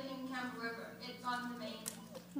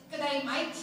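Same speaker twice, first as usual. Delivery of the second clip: Australian accent; 6 dB louder than usual. Shown as a demonstration. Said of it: "word I can say that makes me sound Australian-ish".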